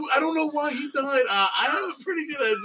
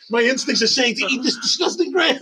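lightly voiced dog, puzzled; voicing the dog's thoughts; dog's inner voice. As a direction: speak as the confused dog.

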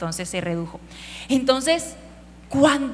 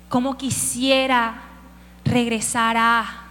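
slow, stretched wishful longing; slow drawn-out longing; slower than usual. Retold or imitated. David longing to return, drawn out slowly. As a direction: draw out the wish slowly. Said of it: "Y él solo dice".

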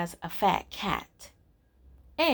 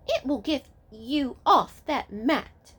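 high squeaky rat; 6 semitones higher than usual. Acted. Rat threatens cat.

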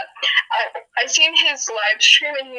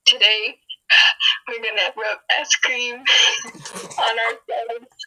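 creepy channel host. Retold or imitated. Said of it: "one of those creepy ass channels".

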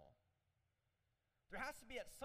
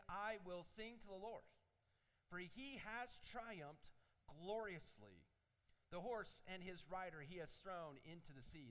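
scripture reading. Acted. Reads the song aloud.

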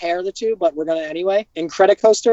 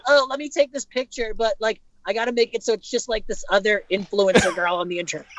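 higher, lightly voiced influencer; mock influencer girl; 4 semitones higher than usual. Friend teasing another about posing for photos, light higher influencer voice. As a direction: tease a friend by playing a photo-obsessed influencer. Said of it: "you'll be like".

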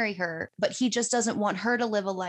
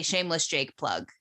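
catchphrase; 4 semitones lower than usual. Shown as a demonstration. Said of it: "we say".

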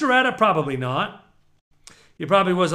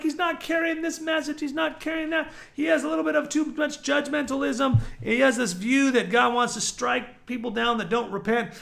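higher, softer complaint, replaying an old grievance; mildly upset, imitated grumbling; retold upset; 4 semitones higher, 3 dB quieter than usual. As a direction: complain in a pitched-up voice. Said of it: "I was upset at my grandpa".

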